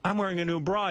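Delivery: high, indignant imitation; mock dismay. Woman demands her old clothes back, mock dismay.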